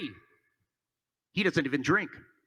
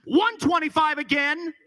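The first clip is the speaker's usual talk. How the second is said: auctioneer; 5 semitones higher than usual. Acted. Calling out bid numbers.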